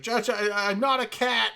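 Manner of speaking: stammered, high-pitched mock panic; imitating embarrassed lawyer. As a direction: mimic a mortified man pleading with a judge. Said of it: "he was, like, really embarrassed".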